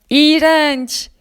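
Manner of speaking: yükselen sesle abartılı tiksinti; iğrenerek, sesi yükselt. Acted. Jöleye tiksinti. (tiksinmiş çocuk masalı sesi)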